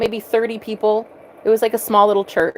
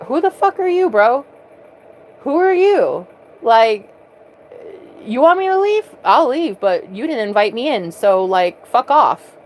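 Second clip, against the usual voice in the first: brash confident retort; 3 semitones higher than usual. Retold or imitated. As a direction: toss it off, unbothered and cheeky. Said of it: "he had this confidence about him".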